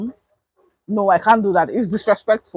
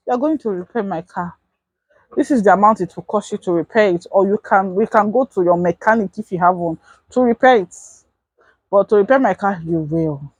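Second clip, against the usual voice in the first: calm, not shouting. Shown as a demonstration. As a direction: state it calmly instead of yelling. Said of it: "Not shouting".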